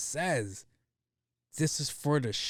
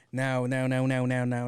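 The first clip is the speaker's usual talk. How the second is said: loud calling; 4 dB louder than usual. Acted. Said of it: "you fucking dick slobbers".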